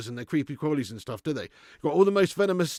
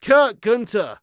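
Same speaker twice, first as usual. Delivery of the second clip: loud, high shout of the donor's name; celebratory shout; 6 semitones higher, 9 dB louder, much slower than usual. Real, not acted. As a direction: call out the name like a cheer.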